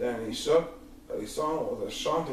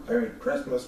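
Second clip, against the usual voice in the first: Grinch musing; 8 semitones higher than usual. Acted. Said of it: "he thought".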